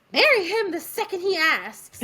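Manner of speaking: playful excited quote; eager urging. Retold or imitated. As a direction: blurt it out as an eager character. Quoting an eager character's urging.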